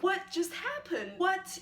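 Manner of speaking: acted happy surprise; happy excitement. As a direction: act out a thrilled "What just happened?". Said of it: "You're happy, you're excited".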